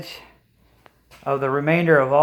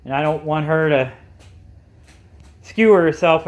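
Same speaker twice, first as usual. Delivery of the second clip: muffled; 3 semitones higher than usual. Real, not acted. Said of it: "if I sound muffled in that, that's because I'm wearing a mask".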